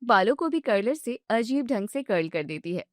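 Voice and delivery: usual speaking voice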